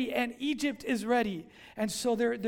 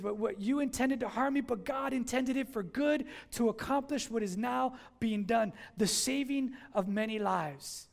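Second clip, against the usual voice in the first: scripture reading. Acted. Reads scripture again.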